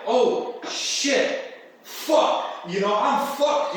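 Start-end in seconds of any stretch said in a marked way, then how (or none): 0.1-2.5 higher, voiceless oh shit, fuck; mock panic as the key won't turn up; panicked curse. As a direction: swear in a rising panic under your breath. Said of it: "I'm like".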